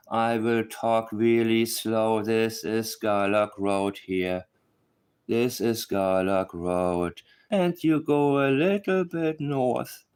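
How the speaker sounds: very slow, drawn-out mock of a fellow YouTuber; mocking Ninchi. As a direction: spell it out painfully slowly, as if to a child. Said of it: "so I will try the Ninchi approach now".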